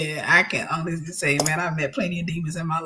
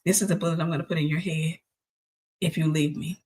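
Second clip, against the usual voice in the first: understated menace, slightly lowered voice; serious, angry threat; 3 semitones lower than usual. Retold or imitated. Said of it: "he's looking serious, looking angry".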